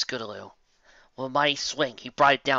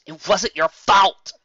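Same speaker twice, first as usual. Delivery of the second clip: higher, louder, slow insistence; pleading shout; 8 semitones higher, 11 dB louder, slower than usual. Acted. Applejack shouts at Rainbow Dash that it was not her fault, pleading. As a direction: make her hear it at last.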